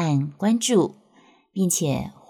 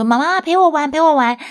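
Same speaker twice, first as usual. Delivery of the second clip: put-on much higher, louder little-kid whine; child begging mom to play in the slide tunnel, whiny; pleading child; 12 semitones higher, 7 dB louder than usual. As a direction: beg mommy to come play like a small child. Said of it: "他就会说".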